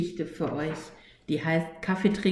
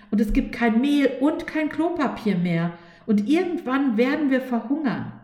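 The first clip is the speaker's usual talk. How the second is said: anxious catastrophizing; 5 semitones higher than usual. Acted. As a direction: pile up doom, getting more frantic. Fear lists catastrophes in panic.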